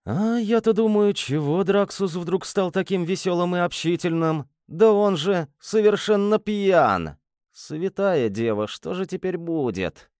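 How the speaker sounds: high, alarmed realization; dawning alarm, voice up. Acted. Hero alarmed: demon is drunk.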